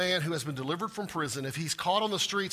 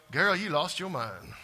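sassy modern paraphrase; slower than usual. Retold or imitated. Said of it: "I know they didn't speak like that".

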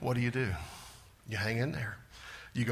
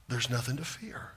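softer, still hushed; soft repeat; 6 semitones lower, 8 dB quieter than usual. Shown as a demonstration. Preacher repeating the promise softly to the congregation. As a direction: let the reassurance settle gently.

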